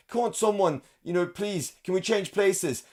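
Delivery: high pleading whine, dragged out; mock pleading. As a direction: beg to swap places, whiny and high. Voicing the trapped attendee pleading.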